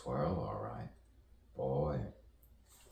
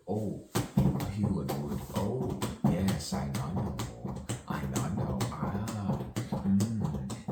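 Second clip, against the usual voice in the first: ecstatic; 2 semitones higher, 5 dB louder than usual. Real, not acted. Ecstatic over music.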